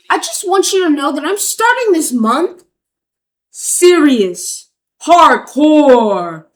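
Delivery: loud, hyped movie trailer announcer; dramatic trailer voice. Shown as a demonstration. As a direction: boom it out like an epic trailer. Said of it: "Ooh, let me make it dramatic".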